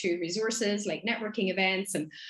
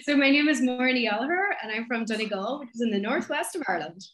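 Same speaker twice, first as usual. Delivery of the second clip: west of Ireland accent; 3 semitones higher than usual. Real, not acted. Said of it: "because I love the sound of this".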